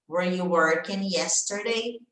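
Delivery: "Were you working yesterday?" said slowly and clearly; slow teacher model sentence; slow model answer. Shown as a demonstration. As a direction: read it out slowly for students to repeat. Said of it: "como é que você diria?".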